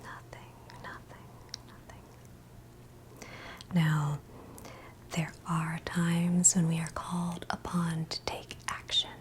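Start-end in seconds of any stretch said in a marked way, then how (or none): 0.0-3.3 very soft, drawn-out whispered echo; fading whisper. Acted. Meditation guide letting silence in, whisper fading away. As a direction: let the word dissolve into silence. Echoes the meditation's key word.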